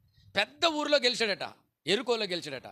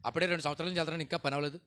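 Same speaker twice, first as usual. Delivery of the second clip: much softer, drooping imitation of a tired complainer; mock whiny complainer; 3 semitones lower, 6 dB quieter than usual. Preacher mimics churchgoers complaining, soft and whiny. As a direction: mimic someone moaning that prayer didn't work. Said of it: "కొంతమంది అంటారు".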